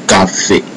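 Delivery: "cafe" stressed on the final "fe"; French "cafe", weight at the end. Shown as a demonstration. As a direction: lean on the last syllable of "cafe". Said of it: "it's the end that bear the heavy stress".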